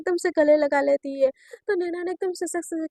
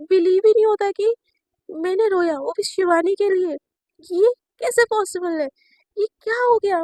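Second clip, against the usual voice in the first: shocked disbelief; 4 semitones higher, 4 dB louder than usual. Acted. Naina shocked at her tears.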